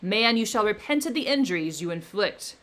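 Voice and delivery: loud, menacing creature; the creature threatening his maker, loud; vengeful threat. Acted. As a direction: vow revenge with rising menace. Creature threatens Victor with revenge.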